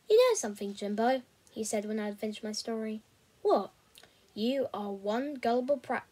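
steady storytelling read; audiobook-style narration; story narration. A narrator's reading. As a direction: read the chapter aloud to listeners. Reads a novel chapter aloud.

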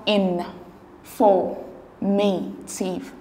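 "in, for, may, tive" slowly, as separate syllables. Shown as a demonstration. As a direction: break it into "in", "for", "may", "tive" with pauses. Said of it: "divide it into syllables".

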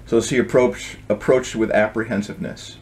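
gentle storybook reading voice; story narration. A narrator's reading. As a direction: read it like a bedtime tale. Author reads his book aloud.

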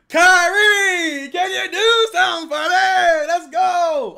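high, loud, slow cry to Kyrie; a fan crying out to the TV; desperate shouted plea. Real, not acted. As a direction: beg your player at the top of your lungs.

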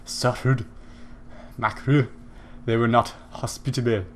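half-hearted, badly faked French accent; attempted French accent. Gamer improvising for the knight, attempted French accent. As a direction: fumble through a mock French accent. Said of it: "no idea how to do a French accent".

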